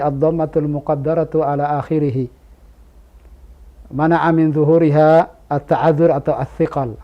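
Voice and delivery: mock pedantic grammar lecture, rattled off; bury the beginner in grammar terms; overcomplicating grammar teacher. Teacher parodying a pedant who lectures a beginner on grammar, mock pedantic. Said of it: "Ada orang mempersulit".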